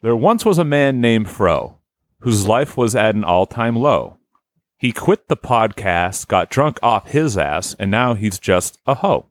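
slow sing-song limerick reading; bouncy limerick lilt. Shown as a demonstration. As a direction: read it like a nursery rhyme. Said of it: "it's a limerick about Fro".

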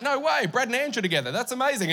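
playful fake thrill over gossip; mock excitement. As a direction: gush over the old magazine in jest. Mock reading old gossip magazine.

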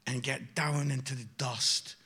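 ordinary delivery

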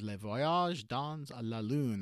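mangle the title with a bad French accent; horrible French accent. Shown as a demonstration. Self-mocking reviewer naming the last episode in a horrible French accent. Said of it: "That's my horrible French accent".

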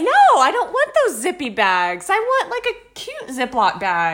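high, slow, whiny mock demand; whiny shopper complaint. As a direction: whine it like a picky shopper. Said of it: "And I'm like".

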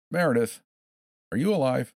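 high, loud cheery question; sing-song quizzing. A narrator's reading. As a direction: ask it like the grand finale. Captor's final cheerful question.

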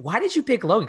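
lightly voiced wife, asking Why did you pick Logan; imitating wife. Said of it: "she was like".

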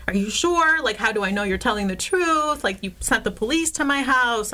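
half-acted indignation at the landlord; upset demand. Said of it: "I was upset".

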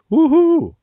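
high, loud holler into the cave; mating call yell. Acted. Diver copying the locals' call, loud high holler. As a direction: whoop it out hopefully. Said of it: "and he goes".

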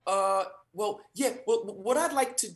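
a lightly voiced, hesitant casting director; worried casting director. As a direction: hesitate as if she's troubled.

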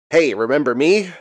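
lightly voiced old man; a weak try at an old man; Stan Lee old man voice. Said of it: "I can't do that old man voice".

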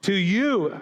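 mildly grand, lingering on YOU; drawn-out proclamation. Shown as a demonstration. Preacher proclaiming Jesus' woe to the congregation, drawn out. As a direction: stretch TO YOU with a falling swoop. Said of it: "I wanna start talking like that".

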